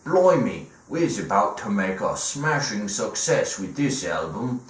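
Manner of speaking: high, over-the-top Cockney banter; a hammed-up British rock band pitching a song; mock British accent. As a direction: ham up a London geezer. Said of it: "a famous rock band are all sitting in a room and they're like".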